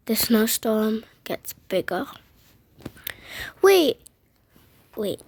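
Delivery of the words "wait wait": high startled whisper; sharp whisper. Acted. Child hearing something strange, whispering sharply. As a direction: catch a sudden sound, whispered. Sudden alarm.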